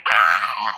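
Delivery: imitated toddler scream of frustration; mock scream. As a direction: cry out like a thwarted little kid. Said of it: "And she would scream".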